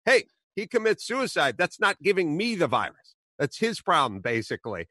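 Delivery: high, dismissive brush-off; mocking. Podcaster imitating the official brushing off the question. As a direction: toss it away like it's nothing. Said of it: "He's mocking the person".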